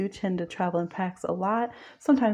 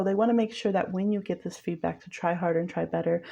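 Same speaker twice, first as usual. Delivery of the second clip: ordinary talk, nothing marked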